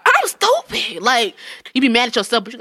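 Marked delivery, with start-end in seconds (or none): 0.1-1.0 much higher squeaky self-scold; mock self-scolding. Telling friends how a breakup makes you feel, high mock wail. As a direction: squeak it out at yourself. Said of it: "drive down the street like".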